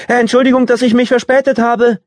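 loud, high call up the stairs; calling out from downstairs; from another room. A narrator's reading. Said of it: "rief Melinda von unten".

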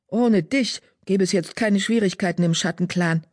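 high, heated spitting anger; angry. A narrator's reading. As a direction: lash out, insulted and furious. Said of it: "Wind fauchte".

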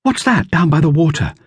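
Dorothea. A narrator's reading. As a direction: read it as young Dorothea. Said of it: "said Dorothea".

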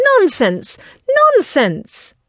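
high, emphatic dismissal; emphatic exclamation. A narrator's reading. Wife dismisses her husband's plan, high and emphatic. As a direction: exclaim it sharply, falling at the end. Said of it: "this emphatic exclamation".

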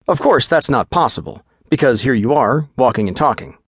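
quick, businesslike physician giving orders; lightly voiced clinical doctor; brisk doctor.

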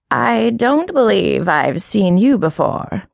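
slow, lightly voiced scornful old cat; mild raspy scorn. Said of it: "continued the voice raspily".

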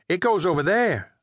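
put-on high little-boy voice, matter-of-fact; high child's voice telling off a stranger. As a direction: speak up like a small boy correcting a grown-up. Pete points to the slots.

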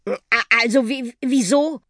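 timid, stuttered question; startled stammer. Acted. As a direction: stumble over the words in surprise. Startled boy stammers at talking bus.

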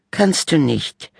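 put-on high, slow boy voice; bickering brother. A narrator's reading. Little brother teasing sister, high and slow. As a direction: drag it out to annoy her.

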